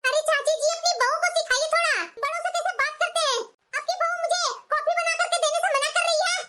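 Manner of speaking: mildly angry, indignant complaining; angry complaint. Acted. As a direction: demand that the elder take her side. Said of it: "इतना गुस्सा सही नहीं है बहू". (हल्के गुस्से में शिकायत)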